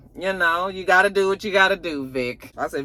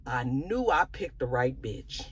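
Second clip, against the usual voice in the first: pleased husband; 8 dB quieter than usual. Retold or imitated. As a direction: murmur it, pleased with himself. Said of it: "And he was just like".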